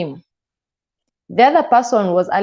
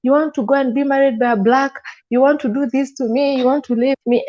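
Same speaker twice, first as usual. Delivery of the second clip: angry husband; 6 semitones higher than usual. Retold or imitated. Husband accusing while strangling her.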